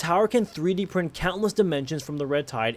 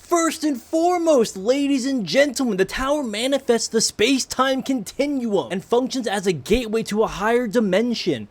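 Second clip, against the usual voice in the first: announcer voice; 6 semitones higher than usual. Pretend. Grand opening announcement.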